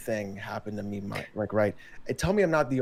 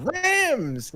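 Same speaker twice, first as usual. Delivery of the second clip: high, drawn-out yell; high-pitched show-quote holler; exclaimed quote; 13 semitones higher than usual. Retold or imitated. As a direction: shout it out like a catchphrase. Retold line from the show, shouted.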